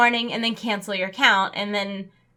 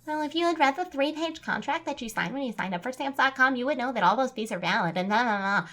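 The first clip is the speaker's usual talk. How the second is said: condescending; 6 dB quieter than usual. Retold or imitated. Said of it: "she's like".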